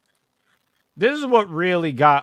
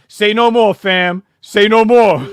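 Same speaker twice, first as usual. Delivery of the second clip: eager; 6 semitones higher, 11 dB louder, slower than usual. Real, not acted. Eager reply, louder.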